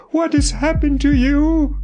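high, anxious call through the door; crying out. A narrator's reading. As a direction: call up to him, frightened. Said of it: "I cried".

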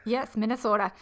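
put-on playful Minnesota accent on the state name. Host echoing co-host's tease, mock Minnesota accent. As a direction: say Minnesota like a local, lightly put on. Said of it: "I'm not doing an accent".

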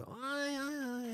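high, soft, drawn-out caricature; Scottish beggar. Retold or imitated. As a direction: feign interest in a thin, high voice. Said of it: "he's a Scottish guy".

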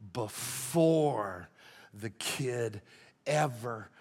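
whispered, hushed for emphasis. Real, not acted. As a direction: let it drop to a whisper. Preacher's hushed point.

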